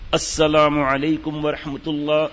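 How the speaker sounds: slow, drawn-out salam; slow salam demo. Shown as a demonstration. Teacher demonstrating the prayer salam, slow. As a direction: draw the greeting out in a measured way. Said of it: "میں تو بیان کر رہا ہوں".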